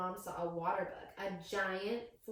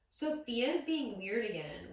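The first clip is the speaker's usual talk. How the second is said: slow sneering taunt; lightly mocking kid; 3 semitones higher, 4 dB louder, slower than usual. Classmate teasing the bug girl, slow and a bit louder. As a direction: drag it out to tease.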